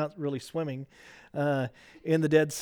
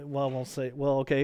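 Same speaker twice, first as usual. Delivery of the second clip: ordinary talk, nothing marked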